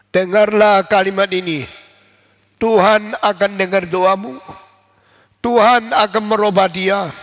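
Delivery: the bishop proclaims hope to the weeping mother; firm reassuring bishop. Acted. Bishop firmly comforts Monica.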